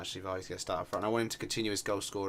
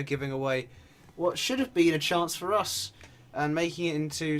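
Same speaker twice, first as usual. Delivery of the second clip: higher-pitched running football commentary; live play-by-play; 5 semitones higher, 5 dB louder than usual. Real, not acted. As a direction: narrate the free kick as it happens, voice lifted. Live play-by-play of free kick.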